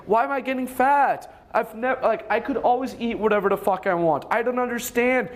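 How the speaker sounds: a hint of a confused young woman; mock whiny girlfriend. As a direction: play her baffled and whining. Girlfriend confused about weight gain.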